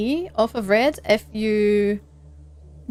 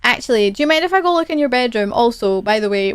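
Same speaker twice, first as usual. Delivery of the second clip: mock nosy visitor; 4 dB louder than usual. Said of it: "and then going".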